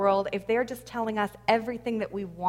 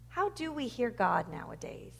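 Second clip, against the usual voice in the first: softer repeat; 6 dB quieter than usual. Real, not acted. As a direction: question repeated more softly, to ponder. Same question repeated softer for reflection.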